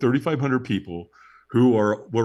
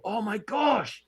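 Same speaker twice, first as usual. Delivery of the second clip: higher, slow, pained dismay; mock panic; 8 semitones higher, much slower than usual. After the walk, fearing burnt feet, high and slow. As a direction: whimper over burnt feet, drawn out. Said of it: "I go".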